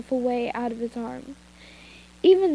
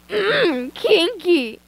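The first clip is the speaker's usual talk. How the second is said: teasing; 6 semitones higher, 5 dB louder, much slower than usual. Acted. Teasing aside about chains.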